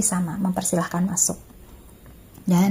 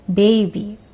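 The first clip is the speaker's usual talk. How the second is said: careful, emphatic single-word model for repeating; pronunciation model. Shown as a demonstration. Teacher models a word for students to repeat, carefully articulated. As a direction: say it clearly for learners to copy. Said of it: "Saya ucapkan, lalu kalian coba ikuti".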